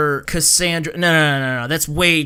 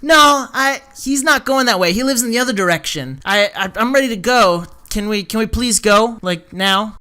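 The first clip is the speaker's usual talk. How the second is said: higher, louder mock-frantic refusal; imitating psycho insistence; 4 semitones higher, 3 dB louder than usual. Wendell refusing another ride home, mock psycho insistence. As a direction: imitate a jealous friend pushing urgently to leave. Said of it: "like, psycho eyes".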